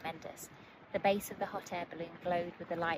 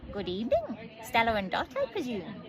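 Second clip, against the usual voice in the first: a touch of a squawk, louder; 3 semitones higher, 6 dB louder than usual. A narrator's reading. Bird greeting the girls, lightly squawked. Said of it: "squawked the bird".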